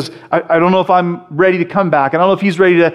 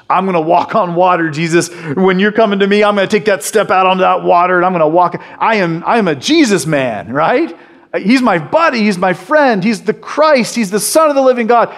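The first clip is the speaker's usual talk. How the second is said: higher, boastful, lightly voiced Peter; brash Peter; 5 semitones higher than usual. Preacher voices Peter bragging to the crowd, higher and boastful. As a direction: puff up like a cocky disciple.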